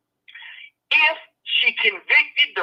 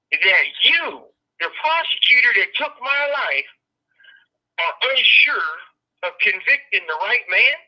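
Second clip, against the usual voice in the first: raised and loud, demanding answers; furious retold outburst; 2 semitones higher, 3 dB louder than usual. Prisoner confronting the prosecutor at his parole hearing, angry and loud. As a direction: confront the prosecutor, voice climbing in anger. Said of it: "I blew up".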